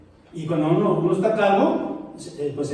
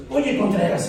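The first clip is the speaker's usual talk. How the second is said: Oye, Contreras with the stress on Oye and a falling end; mildly imitating a cross wife calling his surname; annoyed wife; 3 semitones higher than usual. Pastor retells his wife scolding him by surname. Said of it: "me dice así cuando está enojada".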